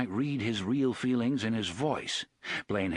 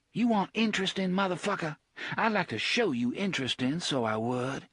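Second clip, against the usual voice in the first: high, fast furious snarl at the machine; 7 semitones higher than usual. A narrator's reading. Susanna to Blaine, enraged and threatening. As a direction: spit it out in fury. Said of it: "sick with rage".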